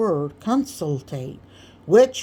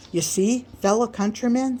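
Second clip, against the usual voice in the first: a lightly raised, grandiose speechmaker's voice; folksy orator Sam; 5 semitones higher than usual. Acted. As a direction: Sam holding court, a bit higher. Sam addresses the kitchen crowd.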